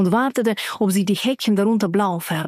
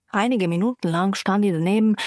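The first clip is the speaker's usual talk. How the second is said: ordinary delivery, nothing marked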